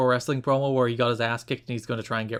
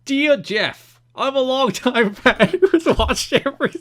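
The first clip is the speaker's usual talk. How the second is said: high, loud, slow cartoon New Jersey accent; 11 semitones higher, 7 dB louder, slower than usual. Co-host demands the fan letter in a New Jersey accent. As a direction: ham up a New Jersey fan's voice. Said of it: "You must read this in a New, New Jersey accent".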